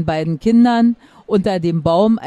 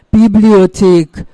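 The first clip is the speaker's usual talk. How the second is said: slow, louder correction through a sob; sobbing growl; 5 dB louder, slower than usual. A narrator's reading. Weeping book correcting the kitten, growled through sobs. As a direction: snap back while crying. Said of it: "knurrte das Buch unter einem besonders großen Schluchzer".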